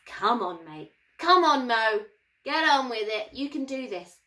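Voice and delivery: a hint of a matey coach; encouraging God. God nudging Moses to get on with it, matey. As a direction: gently urge him on, pally. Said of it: "You can just picture God, going".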